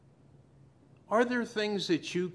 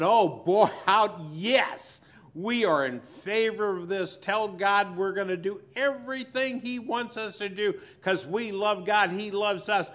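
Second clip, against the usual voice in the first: excited, higher eager crowd voice; eager Israelites; 4 semitones higher, 5 dB louder than usual. Retold or imitated. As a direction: gush like a promising crowd. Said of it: "they all said".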